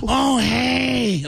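Louie Anderson impression. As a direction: hit that one high note. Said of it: "when you do that over and over again".

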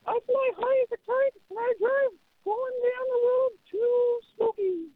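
old-time cartoon character voice; vintage cartoon voice. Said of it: "Use your cartoon voice".

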